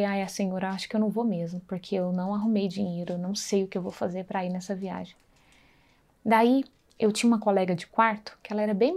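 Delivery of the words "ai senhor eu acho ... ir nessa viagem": softer, subdued plea to God; a hint of a downhearted prayer; sad prayer. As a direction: quietly lay the sadness before the Lord. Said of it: "cheguei no meu quarto super triste e falei".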